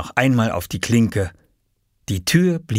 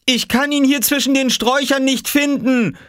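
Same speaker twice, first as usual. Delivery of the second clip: high, impatient raised voice; annoyed call; 4 dB louder than usual. A narrator's reading. Mother searching the bushes outside, calling impatiently. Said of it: "rief Mama von draußen".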